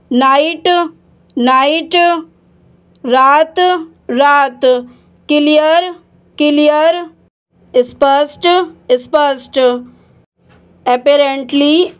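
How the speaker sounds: apparently, drawn out slowly syllable by syllable; slow model word. Shown as a demonstration. Teacher models apparently very slowly for the class. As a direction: stretch apparently out very slowly so learners catch each sound. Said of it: "teacher models word slowly".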